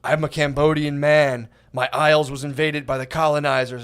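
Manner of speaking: lightly voiced solemn father; a hint of a proud patriarch, proclaiming; mock Cambodian dad. Dad telling his daughter her heritage, lightly mocked solemn father. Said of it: "so her dad started".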